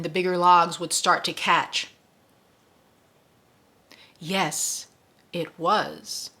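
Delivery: reading the book to listeners, slowing on the key line; story narration. A narrator's reading. Host reads the novel passage to listeners, narrating evenly.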